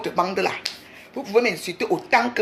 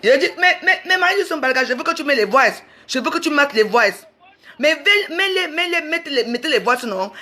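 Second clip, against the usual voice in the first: higher-pitched, stammering insistence; real exasperated demand, pitched up; heated demand; 5 semitones higher than usual. Real, not acted. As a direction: insist angrily, tripping over the first words.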